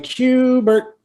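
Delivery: high sing-song call up the stairs; calling out for the cat. Retold or imitated. Owner calling a cat two floors up, high sing-song call.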